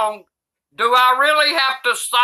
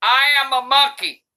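usual speaking voice

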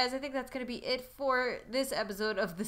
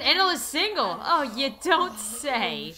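higher, louder, slowing into drawn-out irony; mock surprise; 3 semitones higher, 5 dB louder than usual. Player learning Anna is single, mock surprise. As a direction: act astonished, stretching the last words slowly.

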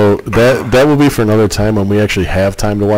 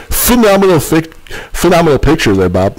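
radio voice; 6 semitones higher than usual. Acted. Joins the mock radio banter.

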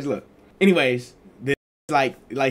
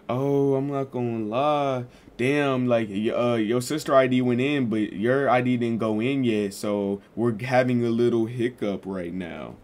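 slow, lightly voiced leasing guy; a hint of the apartment dude explaining; mimicking leasing agent; slower than usual. Leasing agent explains the ID hiccup, lightly voiced and slow.

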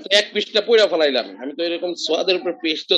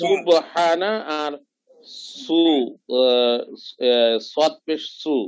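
slow letter demo; much slower than usual. Shown as a demonstration. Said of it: "reciting letters slowly".

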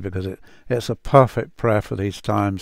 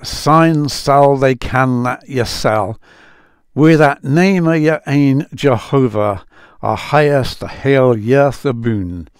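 attempted Scots accent; 4 semitones higher, 5 dB louder than usual. Apologising to Scottish friends, then reading Psalm eighty-three in a halting Scots accent. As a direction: read the Scots verse in your best borrowed Scots accent, a bit laboured. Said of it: "Oh, excuse my accent".

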